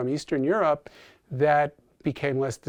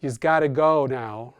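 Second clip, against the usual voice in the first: slower, New York accented plural "You's"; New York "yous" demo; 4 dB louder, slower than usual. Shown as a demonstration. Linguist giving an example of Irish influence, New York "yous" demo. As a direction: show off the New York "You's", slightly drawn out. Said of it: "brought us our famous yous".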